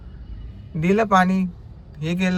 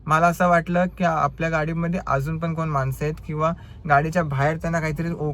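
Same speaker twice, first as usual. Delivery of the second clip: ordinary talk, nothing marked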